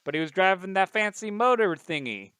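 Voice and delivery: high, loud, indignant; upset woman voice. Acted. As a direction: complain like a rattled witness. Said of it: "And they're like".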